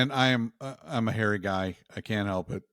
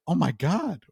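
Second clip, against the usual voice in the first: mock shock; 4 semitones higher, 4 dB louder than usual. Nurse seeing hairy patient.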